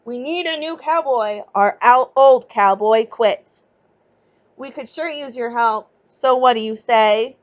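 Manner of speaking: loud, gruff-voiced boss making his offer; growling cattle boss. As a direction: boom it out like a rough trail boss. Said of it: "The cattle boss growled".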